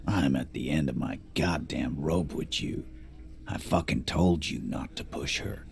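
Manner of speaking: tense, breathy threat through clenched teeth. Acted. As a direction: hold back your rage behind locked jaws. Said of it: "He says through clenched teeth".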